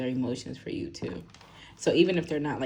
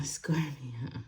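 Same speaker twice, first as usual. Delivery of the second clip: whisper; 5 dB quieter than usual. Real, not acted. Whispers the sign, then repeats it.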